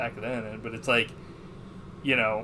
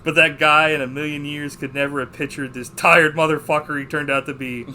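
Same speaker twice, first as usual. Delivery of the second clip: loud, higher, punched-out movie monologue; acted rant; 3 semitones higher, 8 dB louder than usual. Fed-up husband rants about his lost youth, imitated ranting. Retelling the film character's rant.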